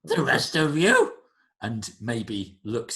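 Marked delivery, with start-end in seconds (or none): 0.0-1.1 high, loud creature voice; creature host. Acted. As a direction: call out as an alien host. Game master voices creature host.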